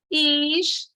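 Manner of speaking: "His-to-ri-a" in four separate syllables; "His-to-ri-a" sounded out with gaps between syllables. Shown as a demonstration. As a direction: split "His-to-ri-a" slowly, with RI and A apart. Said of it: "pode se separar do mesmo jeito".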